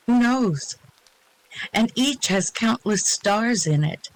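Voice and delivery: measured verse reading with pauses between phrases; poem recital. Acted. Reader shares a cosmic poem with the group, recited. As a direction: recite it with lifted openings on the questions.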